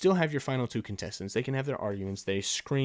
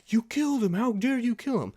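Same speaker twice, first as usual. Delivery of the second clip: mocking Gi-hoon; 10 semitones higher than usual. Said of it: "He's like".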